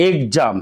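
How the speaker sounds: এক্সাম said egzam; voiced gz in এক্সাম; teacher modelling gz. Shown as a demonstration. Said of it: "ইউই জ উচ্চারণ করতে হবে".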